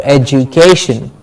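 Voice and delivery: "education" as ej-oo-KAY-shun; the j variant of "education"; alternative pronunciation. Shown as a demonstration. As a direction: say "education" with a j sound, stress on "ca". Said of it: "Either of the word, it's correct".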